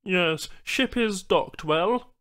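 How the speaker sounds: high, slow alien voice; patient alien explaining slowly; alien Banu trader. Acted.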